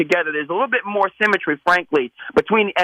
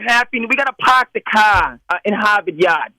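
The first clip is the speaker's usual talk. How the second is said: put-on New England accent; 2 semitones higher than usual. Caller shows off his New England accent for the hosts. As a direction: drop the r's like a Boston local. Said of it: "hear your best with your New England accent".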